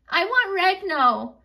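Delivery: put-on crying toddler. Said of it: "because Ginger was crying".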